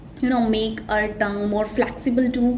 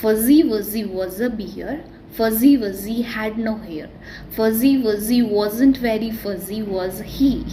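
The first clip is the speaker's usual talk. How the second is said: tongue twister recital. Shown as a demonstration. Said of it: "You can only pronounce it like".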